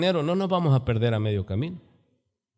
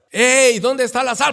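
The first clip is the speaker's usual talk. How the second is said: higher and louder, a curt barked question; imitating a husband snapping at home; rude demand; 8 semitones higher, 5 dB louder than usual. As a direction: drop the sweetness and bark it. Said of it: "Pero cuando se va la visita".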